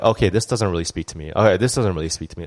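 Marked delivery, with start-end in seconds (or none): 1.3-2.5 quicker, brushing it off; hurried, unimpressed mutter; fast dismissive repeat. Retold or imitated. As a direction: rattle it off fast as you flip sermons. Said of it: "I'll be like".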